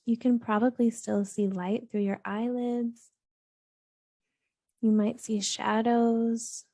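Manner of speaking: calm, even meditation voice with long pauses; unhurried, steady grounding-practice delivery; guided meditation. Real, not acted. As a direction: gently guide listeners into grounding, leaving space between phrases.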